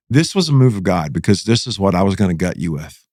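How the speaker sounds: low, emphatic close-up confrontation; retold menacing confession. Prisoner gets in Jamie's face with shank, low retold menace.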